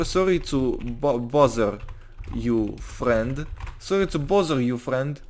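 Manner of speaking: put-on Russian accent, halting; lightly faked Russian English; fake Russian accent. Anton politely approaching a stranger in roleplay, fake Russian accent. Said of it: "He speaks with a Russian accent".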